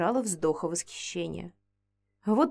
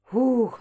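relieved exhale; 3 semitones higher than usual. Acted. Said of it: "облегчённо выдохнула".

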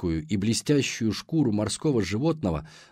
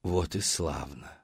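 gurgling sea hag; 4 semitones lower, slower than usual. Acted. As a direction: purr it low like a sea hag. Monster mother voiced.

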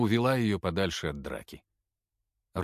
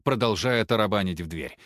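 plain reading voice

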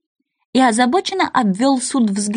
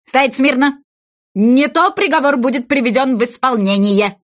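king's threat; 3 semitones higher than usual. Acted. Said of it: "приказал король".

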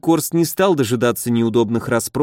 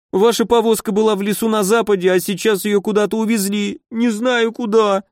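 higher tearful whining; whimpering; 8 semitones higher than usual. A narrator's reading. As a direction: keep whimpering, slowing at the end. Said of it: "захныкал он". (плаксиво, высоким голосом)

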